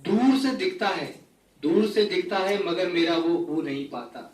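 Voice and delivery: measured mushaira-style poetry recital; ghazal recitation. Acted. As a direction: recite the couplets, letting each phrase land. Recites a ghazal to a live audience. (मुशायरे के अंदाज़ में ग़ज़ल पाठ)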